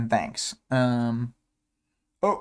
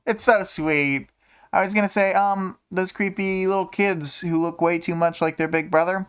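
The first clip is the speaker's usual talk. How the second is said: a lightly voiced, wistful girl, a bit higher; reading a character; 5 semitones higher than usual. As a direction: list the things she'll miss in a light character voice. Reads Imp's lines aloud.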